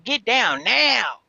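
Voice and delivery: slow firm order; stern slow command in all caps. Retold or imitated. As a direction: bark it out slowly. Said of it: "you know how I do".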